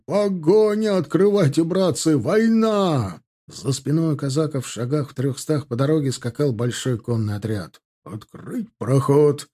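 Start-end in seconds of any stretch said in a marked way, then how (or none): 0.1-3.2 high-pitched Cossack alarm calls; urgent cries. A narrator's reading. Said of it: "возгласы от подлетающего казачьего отряда". 8.0-9.5 slow, drawn-out order; barked command. A narrator's reading. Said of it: "рявкнул командир егерей".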